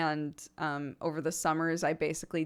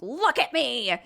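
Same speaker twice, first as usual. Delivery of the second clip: higher, louder showy cry for attention; attention seeker; 8 semitones higher, 7 dB louder, slower than usual. Retold or imitated. Theater kid demanding the spotlight, loud and showy. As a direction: call out like a kid who wants the spotlight. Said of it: "you're just like".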